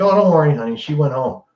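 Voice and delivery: lightly played cheerful sitcom mom. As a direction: sweeten it like a fifties TV wife. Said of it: "howdy doody sitcom mom".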